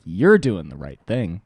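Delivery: Spike Lee impression. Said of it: "He'd be like".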